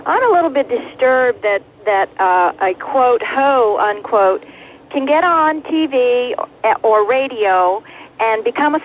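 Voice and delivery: caller on a car phone; thin, clipped phone line sound. Real, not acted. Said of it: "calling from a car phone".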